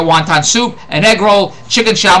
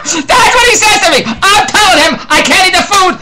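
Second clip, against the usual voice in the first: incredulous storyteller laughing at the manager; laughing while talking; 10 semitones higher than usual. Real, not acted. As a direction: talk through real laughter, pitched up.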